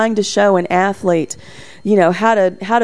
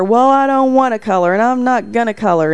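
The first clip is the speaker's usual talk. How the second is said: put-on defiant child fit; 3 semitones higher than usual. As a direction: lightly play a stubborn little boy refusing. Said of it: "And he would throw this fit".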